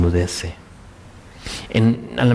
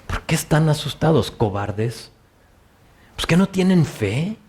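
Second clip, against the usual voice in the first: exasperated scolding; 2 semitones higher than usual. Shown as a demonstration. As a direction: scold them like a fed-up teacher. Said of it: "¿Sí, sí ven cómo cambia el tono?". (Jesús decepcionado y molesto, en tono de regaño)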